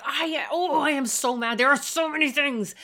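loud, raw vent of anger with no insults; demo yelling. Shown as a demonstration. Parent yelling at a misbehaving child, loud but controlled. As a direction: let the anger out full volume but keep words safe. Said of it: "So you can be yelling".

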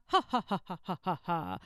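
mock guffaw fading off; imitating friends' chuckling. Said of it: "chuckle and guffaw".

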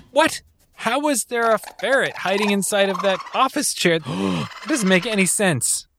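high-pitched, gasping bewilderment; shocked disbelief. Acted. Contestant finds a ferret in the chair, shocked. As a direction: blurt it out, baffled and startled.

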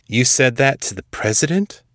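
high-pitched, astonished question; incredulous. A narrator's reading. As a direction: ask in disbelief, rising sharply at the end. Stunned at general's defiance of president.

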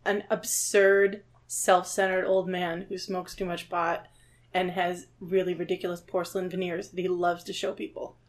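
hushed, unhurried grumble; too quiet. Real, not acted. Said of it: "talk a little bit louder".

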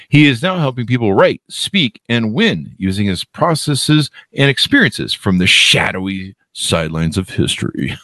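lightly dramatic announcer read, slowing into the finish; movie-trailer voice. Real, not acted. Host introducing his author guest, touch of movie voice. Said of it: "in the movie voice".

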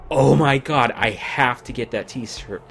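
loud, thrilled outburst; excited gush. Retold or imitated. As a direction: gush over the shirt. Excited quote of own reaction.

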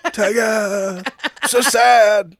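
high mock-sad wail; mock sadness. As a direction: whimper it melodramatically, swelling at the end. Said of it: "shocked and into sadness".

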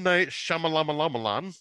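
slow, laughing name mangle; giggling through the name. Real, not acted.

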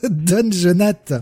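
slow, stifling a laugh; holding back laughter; trying not to laugh. Real, not acted. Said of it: "Mais là, j'ai pas réussi".

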